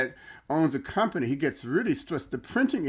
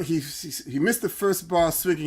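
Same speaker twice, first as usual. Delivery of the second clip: usual speaking voice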